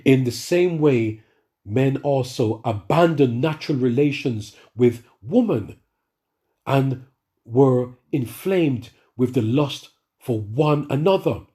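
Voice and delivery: slow, measured Bible reading; slow solemn reading from Romans; scripture reading. Acted. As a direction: read it out slowly and solemnly. Reads scripture aloud.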